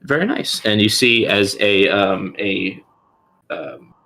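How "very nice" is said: squeaky pleased oh, very nice; high, mildly pleased clerk; high NPC voice. Acted. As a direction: pitch it way up, delighted.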